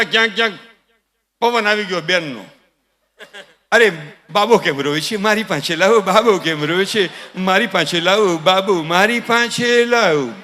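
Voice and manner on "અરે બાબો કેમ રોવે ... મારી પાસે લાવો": lightly voiced sing-song fretting; relative fussing over baby. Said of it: "તા તો grand father". (બાળક માટે લહેકામાં લાડભરી રટ)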